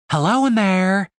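high, loud hail; loud call. Acted. Stacy hails groggy Dave, loud and high. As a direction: shout into his sleepy face.

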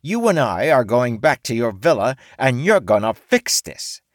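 high, loud menacing demands; T dictating terms to the samurai; threatening orc woman. A narrator's reading. T lays down terms.

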